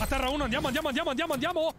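tag. Real, not acted. Urges teammates after downing enemy.

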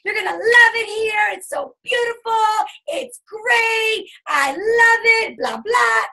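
high, fast, gushing hype voice; mock over-the-top enthusiasm; gushing salesgirl. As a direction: overdo the excited welcome. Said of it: "you don't wanna be like".

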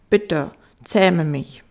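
slow, firmly voiced request; slow plea. Fox begging the little prince, slow earnest plea.

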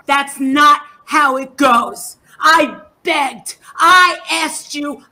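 scolding. Real, not acted. Angry rant at fellow YouTuber.

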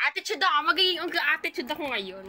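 loud, sassy declaration of attitude; loud playful diva boast. Pretend. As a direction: own the sass, say it proudly. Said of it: "Attitude girl".

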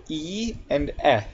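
"E" as ee, then "eh" as short e; two E sounds. Shown as a demonstration. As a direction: contrast long "E" with short "eh". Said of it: "E can make two different sounds".

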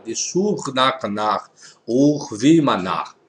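slow, soft reading of the Aramaic prayer; Aramaic pronunciation. Shown as a demonstration. Teacher showing viewers the common Aramaic pronunciation, slow. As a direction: sound out each Aramaic word slowly. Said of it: "Essa pronúncia aqui".

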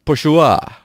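"Porsche" as por-shoo-AH, falling; Porsche ending in "wah". Shown as a demonstration. Trying yet another pronunciation on viewers, "Porsche" as por-shoo-ah. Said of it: "How do you really pronounce it".

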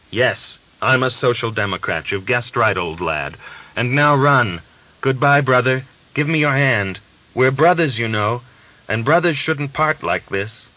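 a fervent parting between brothers; emotional farewell. Acted. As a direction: Valiant bidding the German farewell, fervently.

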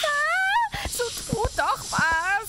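high, loud sobbing plea; panicked crying plea. Acted. Customer sobs and begs the others to act at gunpoint. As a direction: beg the others to act, in tears.

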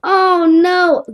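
fake-sob like a sore loser; mock crying. Gamer voicing the losing ragdoll crying on the floor, mock sobbing. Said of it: "he just cried on the floor".

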